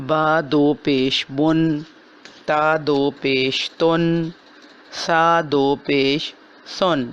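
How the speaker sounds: slow spelling with two pesh, ending بن تن سن; slow recitation drill. Shown as a demonstration. Teacher drilling two-pesh tanween syllables, slow. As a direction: drag out each syllable with a nasal end. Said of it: "نون ساکن کی آواز نکالی جاتی ہے".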